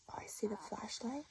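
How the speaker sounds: hushed, wondering whisper; teacher whispering to first graders during story; suspense whisper. Acted. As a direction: draw the kids in softly.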